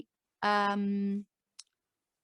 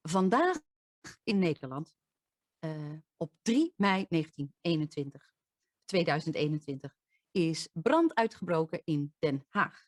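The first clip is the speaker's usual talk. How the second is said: news anchor read; 4 semitones lower than usual. Shown as a demonstration. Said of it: "and you will hear this".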